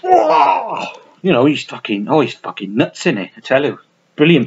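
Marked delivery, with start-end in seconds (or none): 0.0-0.8 whoa. Real, not acted. Reacting to his own impression.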